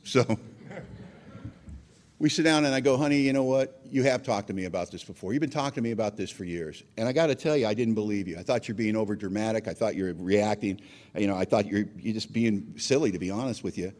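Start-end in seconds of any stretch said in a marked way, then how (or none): 3.0-13.9 low-pitched, conciliatory confession, retold; sincere amends. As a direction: re-enact humbly owning up to your wife.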